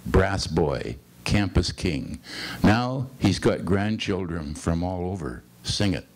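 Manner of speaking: cadenced poem recital with falling line ends; poetry reading. Acted. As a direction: read it as verse, pausing between short phrases. Reads a second poem aloud.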